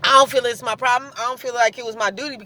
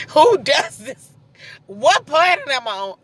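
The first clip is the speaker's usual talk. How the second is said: laughing disbelief; 4 semitones higher, 3 dB louder, slower than usual. Retold or imitated. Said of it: "I was like".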